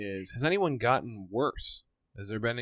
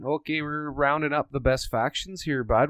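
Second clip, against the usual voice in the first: put-on Canadian hoser accent; 3 semitones higher, 5 dB louder than usual. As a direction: play a chummy Canadian bud rounding up the list. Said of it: "My amazing impersonation".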